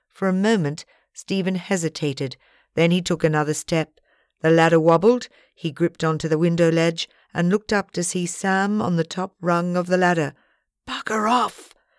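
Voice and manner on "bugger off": whispered, much higher pitch. A man clinging to a wobbling ladder speaks up to someone above him, whispered. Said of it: "he whispered".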